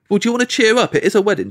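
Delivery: high-pitched chivvying friend, imitated; chiding friend. Friend chides him in retold scene.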